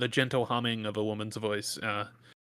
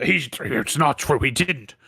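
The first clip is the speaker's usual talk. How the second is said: loud, heated farmer shouting at his neighbour; angry farmer yelling; 5 dB louder than usual. Acted. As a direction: yell it out in a hushed quarrel gone loud. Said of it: "yell out".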